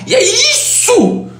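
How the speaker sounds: sudden high, drawn-out outburst; hammed-up impression of an impassioned speaker; Clóvis de Barros. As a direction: burst out theatrically, sky-high and slow. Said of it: "de repente ele faz assim".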